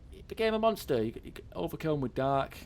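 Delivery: animated retelling. Real, not acted. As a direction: burst out high, then ease down. Dramatic retelling of Gale's downfall.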